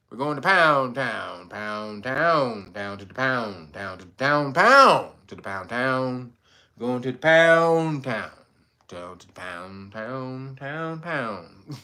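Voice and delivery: low, lazy monotone mock rap; mock rapper. Streamer imitates the singer's flat rap, low and droning. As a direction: talk the lyric like a bored rapper. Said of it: "She just sit up there and just said".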